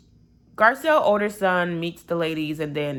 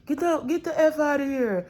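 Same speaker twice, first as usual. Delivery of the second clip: much higher, strained near-yell with a crying edge; screaming curse; 9 semitones higher than usual. Retold or imitated. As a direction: scream it at the boy a second time, harder. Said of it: "He's like".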